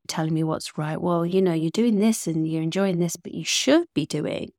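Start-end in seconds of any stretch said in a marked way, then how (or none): 1.0-4.5 mildly condescending inner voice; a touch of know-better authority. Acted. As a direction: tell off with a patronizing "should". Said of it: "it's always in this condescending tone".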